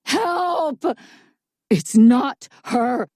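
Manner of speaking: high, loud, drawn-out scream; screaming for help. A narrator's reading. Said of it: "the voice kept screaming for help".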